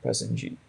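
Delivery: Prestonjeet falling and soft; downward intonation. Shown as a demonstration. Teacher contrasting a falling tune on a name. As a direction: let Prestonjeet drop down at the end. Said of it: "A downward intonation in this case".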